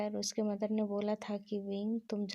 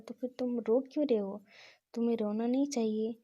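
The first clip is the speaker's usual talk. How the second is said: urging, raised voice; 2 semitones higher, 5 dB louder than usual. Acted. Wang urges Wing to stop crying.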